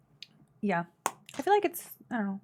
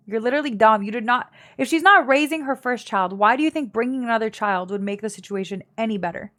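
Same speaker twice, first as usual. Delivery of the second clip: exasperated scolding; 6 dB louder than usual. Real, not acted. Scolding chat, louder.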